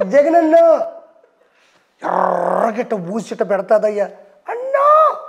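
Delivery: hammed-up drunk calling out to big brother, dragging the words; drunken Roja impression. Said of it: "ఆవిడేమో తాగి, తాగి, తాగి ఇంత వచ్చింది మొహం".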